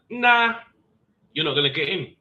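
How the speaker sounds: high scoffing sergeant voice; mock dismissive refusal. Sergeant refusing entry, mocked.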